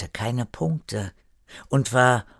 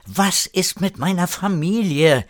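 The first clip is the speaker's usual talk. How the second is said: raised, much higher, insistent question; emphatic; 8 semitones higher than usual. A narrator's reading. Erik asks about his family, emphatic. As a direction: demand an answer with emphasis. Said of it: "fragte Erik erneut und diesmal mit Nachdruck".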